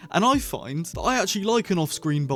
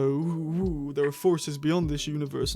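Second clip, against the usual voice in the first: drawn-out ghostly "ooh"; lightly put-on mysterious voice; mock spooky; slower than usual. Teasing the show's vague hints, mock-spooky delivery.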